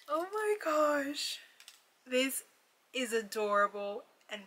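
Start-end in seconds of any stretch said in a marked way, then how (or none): 0.1-1.4 slow, breathless whisper of wonder; soft whispered amazement; awed whisper. Real, not acted. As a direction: hush it out in awe. Awed by ornament details.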